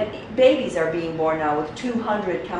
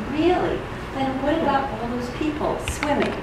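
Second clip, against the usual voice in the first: tourist impression; 4 semitones higher, 5 dB quieter than usual. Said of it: "my best tourist impression".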